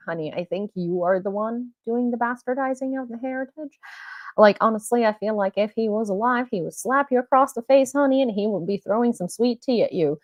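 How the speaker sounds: put-on Southern sass; Southern accent. Scolding the great nephew over heritage, Southern accent. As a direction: scold with a sweet Southern twang. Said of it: "going into Southern".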